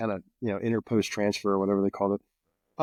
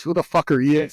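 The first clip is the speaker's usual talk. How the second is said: retold yell; 4 semitones higher, 7 dB louder than usual. Sergeant major confronting stranger.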